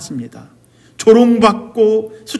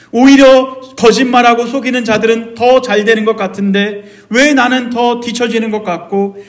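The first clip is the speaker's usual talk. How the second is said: insistent, slightly raised complaint; confronting God; 3 semitones higher than usual. Acted. Believer arguing with God over unfairness, insistent complaint. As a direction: press God with one protest after another. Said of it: "라고 따질 때도 있다라는 거죠".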